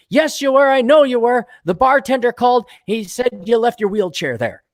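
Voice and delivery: high, loud insistent wife; shrill wife punchline. Acted. Wife catching her husband out, high and loud. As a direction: nail him with the proof.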